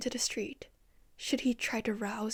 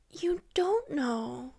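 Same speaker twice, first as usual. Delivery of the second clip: sneering; 4 semitones higher, 4 dB louder, much slower than usual. A narrator's reading. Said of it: "Stainsforth sneered".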